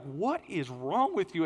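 slow, drawn-out mock question; imitating baffled wife. Wife to husband laughing at the wheel, mock bafflement.

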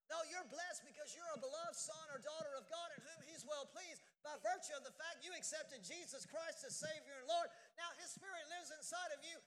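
loud, driving preacher's cry; full-force preaching. Acted. Preaches to congregation.

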